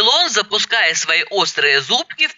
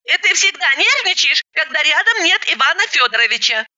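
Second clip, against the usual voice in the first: higher, eager question; young woman voice; 11 semitones higher than usual. Acted. Fiancée asking after Sergei, higher eager voice. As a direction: ask brightly, voice lifted. Elena's voice.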